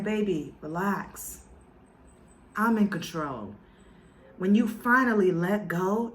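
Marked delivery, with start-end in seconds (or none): 0.0-3.5 low, soothing divine reassurance; calm reassurance. Retold or imitated. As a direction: settle them down, easy and in charge. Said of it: "He's saying".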